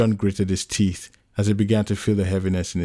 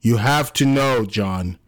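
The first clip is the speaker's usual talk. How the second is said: raised, high-pitched emphatic argument; heated insistence; 5 semitones higher than usual. Acted. Anno argues he would not lie, heated. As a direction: press the point hard, pitch climbing.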